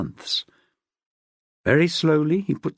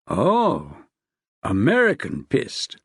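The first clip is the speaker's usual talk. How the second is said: lower, amused man's voice; dry husband reply; 4 semitones lower, slower than usual. Acted. Husband repeats, deeper.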